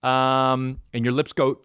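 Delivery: ordinary talk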